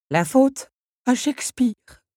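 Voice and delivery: slow, high, ominous clock voice; sinister voice. A narrator's reading. Big Ben blaming Shakespeare, slow and ominous. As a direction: say it darkly and slowly. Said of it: "d'une voix sinistre".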